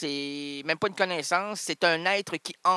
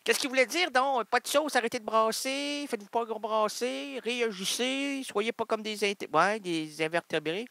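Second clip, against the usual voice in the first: high voice, fast scolding at the cook; Johnny impression; 6 semitones higher than usual. Imitating Johnny scolding the cook, high pitched. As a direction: mimic Johnny's high nagging. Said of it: "on faisait mon imitation de Johnny".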